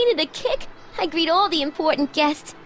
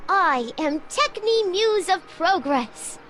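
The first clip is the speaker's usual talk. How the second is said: slow, grand goddess pronouncement; much slower than usual. Acted. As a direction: announce yourself like a goddess. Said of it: "I'm supposed to be a goddess-like".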